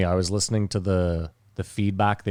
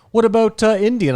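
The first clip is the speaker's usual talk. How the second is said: mock asking; 11 semitones higher, 6 dB louder than usual. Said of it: "And then you were like".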